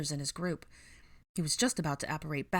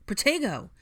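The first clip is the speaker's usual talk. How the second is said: high, loud defensive cry; urgent battle yell; shouted spell; 8 semitones higher, 6 dB louder than usual. Acted. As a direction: throw up a shield with your voice. Shield spell cast mid-fight.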